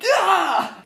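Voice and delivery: sudden high frustrated cry; frustrated yelp. Real, not acted. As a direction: let out a sharp frustrated yelp. Outburst of frustration.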